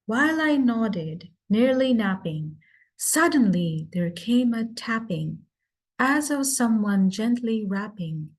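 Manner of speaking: measured reading of The Raven with its tapping beat; poem recitation. Shown as a demonstration. Speaker demonstrates Poe's trochaic rhythm, measured recitation. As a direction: read it with a haunting rhythm. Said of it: "if I may demonstrate".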